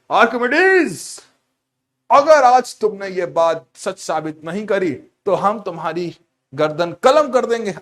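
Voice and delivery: hammed-up angry king; threatening king. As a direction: bark the royal death threat. King threatens to behead Archimedes.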